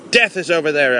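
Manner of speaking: restrained dramatic warning cry; understated shout. Acted. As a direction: narrate a shout without full volume. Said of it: "I shouted".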